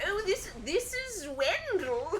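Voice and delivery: very high and very slow voice. Imitating a man with a wandering accent, in a very high voice. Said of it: "His voice was very high too. He'd be like".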